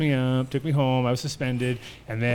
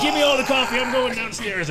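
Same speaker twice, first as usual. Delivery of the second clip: gruff uncle; 11 semitones higher, 5 dB louder than usual. Retold or imitated. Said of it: "He's like".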